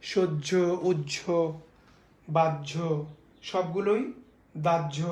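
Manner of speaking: সহ্য, উহ্য, বাহ্য, দাহ্য each with a doubled j and silent h; demo pronunciations. Shown as a demonstration. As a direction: list them with the h dropped. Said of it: "এইভাবে এই উচ্চারণগুলো হবে". (হ বাদ দিয়ে জ দ্বিত্ব)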